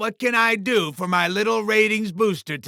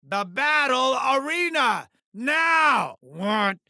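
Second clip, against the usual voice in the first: impatient command; 2 semitones higher, slower than usual. Acted. Boss orders his star into the arena, impatient command. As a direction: stretch each word out, losing patience.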